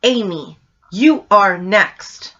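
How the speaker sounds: slow, drawn-out mock ghost voice; hint of a demonic whisper-voice, stretched slow; imitating the spooky recording, slowly; retold demonic voice. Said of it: "you can hear a demonic voice say".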